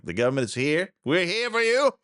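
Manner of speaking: high, mocking official's cheerful promise; sarcastic impression of a cheerful government official; mock earnest misquote. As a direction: parody the bureaucrat's eager reassurance, slowing at the end.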